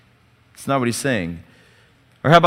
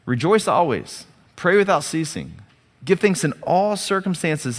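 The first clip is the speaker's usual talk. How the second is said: solemn reading. Shown as a demonstration. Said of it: "he says".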